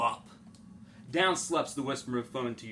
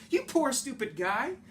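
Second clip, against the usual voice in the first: mocking Onceler; 10 semitones higher than usual. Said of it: "I laughed at the Lorax".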